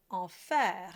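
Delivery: enfer said slowly with an open è before the r; open è vowel. Shown as a demonstration. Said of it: "E comes before a final voiced consonant".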